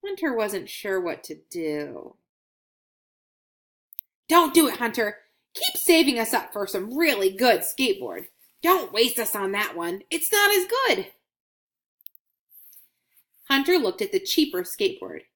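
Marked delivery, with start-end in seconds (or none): 4.3-11.1 pleading coin Scratch. Acted. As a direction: urge the boy not to waste money. Coin voiced in children's story.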